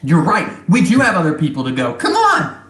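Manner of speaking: high eager goblin voice. Acted. Goblins urging the crew to leave now, high. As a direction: hurry them along, squeaky.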